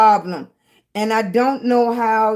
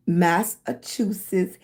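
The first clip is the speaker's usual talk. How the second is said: careful slow word; 3 semitones lower, slower than usual. Shown as a demonstration. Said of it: "I have to say it very slow".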